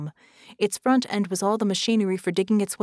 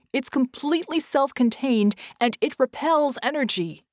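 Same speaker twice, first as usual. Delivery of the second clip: higher, insistent raised voice; moderate acted scream; 6 semitones higher, 4 dB louder than usual. Red tells Vicky the bomb is invulnerable, yelling. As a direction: yell out the bad news. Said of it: "Red screamed".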